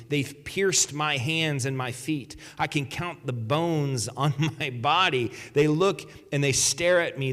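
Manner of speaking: scripture reading. Acted. Pastor reading the psalm to his congregation, solemn. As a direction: lay the lament out line by line.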